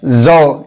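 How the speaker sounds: "जौ" said as a buzzing zo; ZWA letter sound. Shown as a demonstration. Teacher sounding out the letter zwa, "जौ" said as zo. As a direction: say "जौ" with z, not j. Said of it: "ज्वा का उच्चारण होता है".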